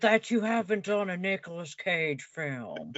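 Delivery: a hint of offended Cage; Nicolas Cage clone. Clone of Nick Cage complaining to the host, light impression. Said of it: "I'm his clone, Nicolas Cage".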